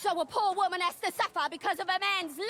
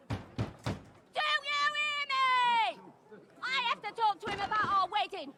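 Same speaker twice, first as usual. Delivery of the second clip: shrill shriek; 3 semitones higher than usual. Acted. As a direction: make a scene, shrieking for all to hear. Feigned scene at the tavern.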